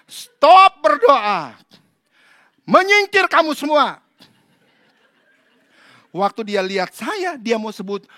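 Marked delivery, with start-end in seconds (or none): 0.1-4.0 slow, loud order to stop praying; commanding shout. Retold or imitated. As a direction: take charge of the room. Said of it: "Saya bilang". (perintah keras dan lambat)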